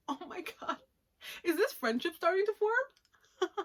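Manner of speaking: high-pitched mock gushing. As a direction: squeal it over a budding friendship. Gushes over a budding friendship.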